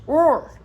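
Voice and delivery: "Roar." said as "woar", w for r; loud "Roar." with a w sound for the r; says w for r. Real, not acted. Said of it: "I can't say my R's".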